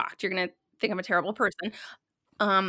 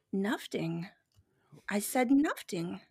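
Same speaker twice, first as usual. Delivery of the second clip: put-on little baby voice; 2 semitones lower, 7 dB quieter, slower than usual. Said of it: "he has a little baby voice".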